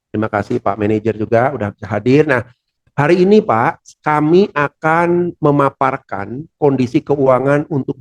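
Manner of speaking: lively, building intonation, slowing to stress key points; rising energy, not flat; energetic delivery. Shown as a demonstration. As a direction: open the presentation with energy for the director. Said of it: "intonasinya harus terbangun".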